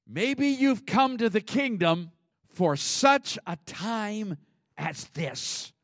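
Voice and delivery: a lightly voiced Mordecai, slow and high; Mordecai's solemn words. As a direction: lean into the weight of the moment, slowly. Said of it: "And Mordecai tells her".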